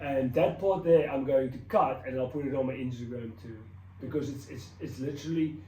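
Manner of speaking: moved, with halting pauses; earnest testimony on the edge of tears; welling up. Real, not acted. Telling viewers God changed their life, welling up. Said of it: "I'm welling up".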